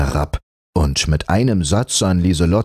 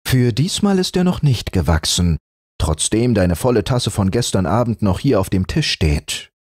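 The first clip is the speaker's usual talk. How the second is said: mother teasing warmly; 2 semitones higher than usual. Acted. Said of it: "Die drohte lächelnd".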